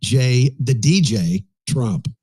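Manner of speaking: slow, drawn-out Trump voice; Trump impression. Mock Trump boast to the room, slow and drawn out. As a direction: drag out every word like Trump. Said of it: "very powerful Trump start to your voice".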